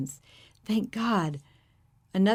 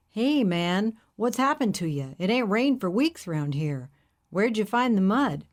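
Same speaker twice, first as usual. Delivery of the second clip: hippie driver; 3 semitones higher than usual. Acted. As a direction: play the friendly hippie, curious.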